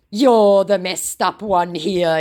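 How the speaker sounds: slow, high, loud retort; mock scammer comeback. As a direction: imitate a hammed-up scammer.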